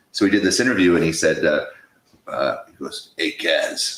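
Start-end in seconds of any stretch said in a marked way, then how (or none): 3.2-4.0 put-on gravelly voice, lower and quieter. Retelling a question from a first interview guest: gravelly voice of a singer. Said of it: "he had the gravelly voice".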